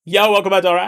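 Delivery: excited greeting. Real, not acted. Streamer greeting raider loudly.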